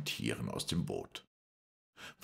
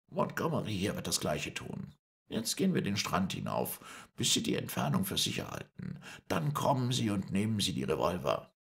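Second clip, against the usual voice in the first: lightly voiced higher-pitched negotiator; Moreau, firm and controlled; 6 semitones higher than usual. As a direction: set out terms in a slightly lifted voice. (leicht gehobene Stimme, beherrscht verhandelnd)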